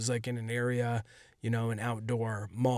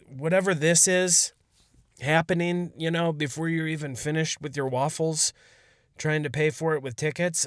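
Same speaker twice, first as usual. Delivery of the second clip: louder, higher, fed-up rant; exasperated outburst; 4 semitones higher, 3 dB louder than usual. Retold or imitated. Narrator fed up with the drunk comic, raised exasperated voice. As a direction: burst out, done with this nonsense.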